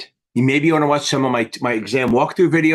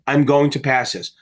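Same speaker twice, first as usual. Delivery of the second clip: confident; 2 semitones lower than usual. Shown as a demonstration. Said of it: "Say it, like, ten times with confidence".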